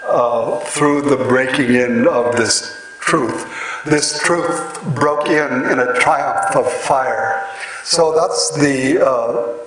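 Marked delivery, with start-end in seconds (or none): 3.9-7.5 poetry recitation. Shown as a demonstration. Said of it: "the line without any scansion".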